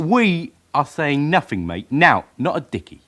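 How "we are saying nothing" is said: We stretched and leaned on, said slowly; defiant suspect stressing We. Acted. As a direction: hit We to speak for all three. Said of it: "We? You the spokesman for the others?".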